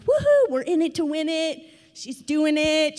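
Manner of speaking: rally the family playfully; mock cheer. The family cheers Emma on, in playful mock excitement. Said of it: "We're like".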